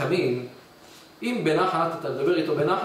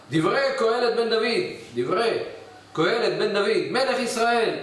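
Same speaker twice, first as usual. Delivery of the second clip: harsh proclamation; 6 semitones higher than usual. Acted. Solomon opens harshly.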